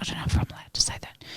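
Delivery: whispered confession, trailing into a quick murmur; confidential, barely voiced admission; hushed aside. Real, not acted. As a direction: drop to a whisper, letting slip a secret. Confidential aside about the restaurant.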